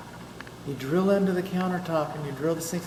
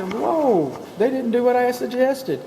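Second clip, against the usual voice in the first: mock dismay at a skipped fire plate; mock alarm; 7 semitones higher, slower than usual. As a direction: act shocked at the builder's shortcut. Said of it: "I'll say".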